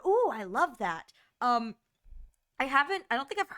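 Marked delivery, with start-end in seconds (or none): 0.1-1.1 mock gushing. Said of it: "never really been like, an".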